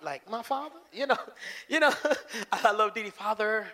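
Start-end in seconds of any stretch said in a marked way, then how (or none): 0.3-0.8 soft, meek "My father?" of a servant; bow your voice like a humble servant; real polite. Acted. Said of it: "real polite". 3.1-3.7 real polite. Acted. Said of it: "Real polite".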